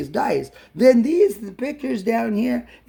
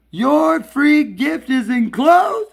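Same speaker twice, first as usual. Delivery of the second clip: incredulous; 5 semitones higher, 3 dB louder, slower than usual. Real, not acted. Incredulous at the package.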